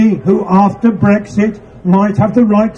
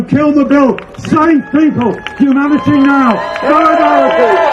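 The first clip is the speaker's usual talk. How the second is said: rallying slogans; 5 semitones higher than usual. Real, not acted. Rally speech climax slogans.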